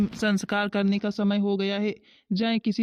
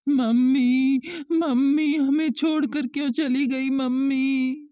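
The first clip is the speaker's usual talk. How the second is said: wailing; 4 semitones higher, slower than usual. Acted. Child wails over mother's death.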